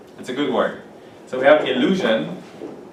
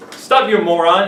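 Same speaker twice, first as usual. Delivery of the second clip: mock scolding; 3 semitones higher, 4 dB louder than usual. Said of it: "it's kinda rude".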